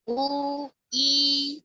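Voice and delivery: "U" with rounded lips, "I" with spread lips; vowel demo. Shown as a demonstration. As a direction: round the mouth for "U", then pull wide for "I". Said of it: "dengan mencucu U".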